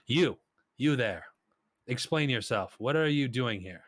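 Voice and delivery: loud, high demand from the throne; commanding Emir. Acted. The Emir singles out one party member, demanding answers. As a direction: point and order him to explain. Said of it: "points and says".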